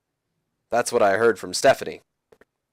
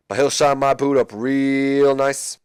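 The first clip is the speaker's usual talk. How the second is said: slow, menacing whisper; whispered taunt; 2 semitones higher, slower than usual. Retold or imitated. The Rock taunting Jericho in a slow whisper. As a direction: lean in and whisper the threat.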